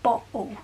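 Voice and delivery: "bottle" with a glottal stop in place of the t. Shown as a demonstration. Showing viewers the Black Country glottal "bottle". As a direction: say "bottle" as "bo'le", catching the t in the throat. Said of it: "a glottal stop saying bottle".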